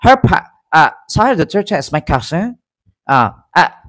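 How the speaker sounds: halting imitation Chinese accent; lightly faked Chinese-accented English; mock Chinese accent. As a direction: stumble through a put-on Chinese accent. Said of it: "Chinese accent".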